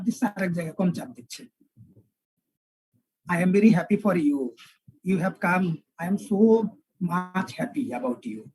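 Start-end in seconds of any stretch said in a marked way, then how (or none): 3.3-8.4 Indian accent. Shown as a demonstration. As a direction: lightly demonstrate an Indian English lilt. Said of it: "Indian একটা টান আছে".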